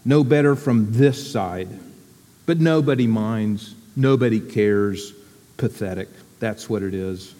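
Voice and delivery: lightly voiced gloomy Eeyore. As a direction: sigh the words out like a glum old donkey.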